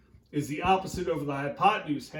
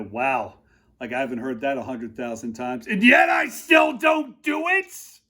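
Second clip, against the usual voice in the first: videographer voice; 4 semitones lower, 4 dB louder than usual. Retold or imitated. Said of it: "my videographer just kinda looked to the side like".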